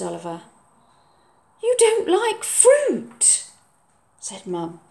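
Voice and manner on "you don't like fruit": slow, pointed; slow, high teasing; teasing mum. Acted. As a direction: rub it in gently. Mum's voice.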